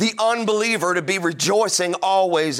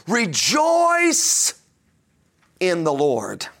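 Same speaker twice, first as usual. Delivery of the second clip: proclaimed command; much slower than usual. Acted. Preacher quoting Paul's command.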